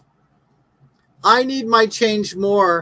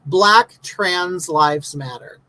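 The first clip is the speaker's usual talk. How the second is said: "Black Trans Lives Matter" spelled out word by word, very slow; slow mocking emphasis; 3 semitones lower, much slower than usual. Real, not acted. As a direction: read the flag slowly, weighing each word to mock it. Reads the flag slowly.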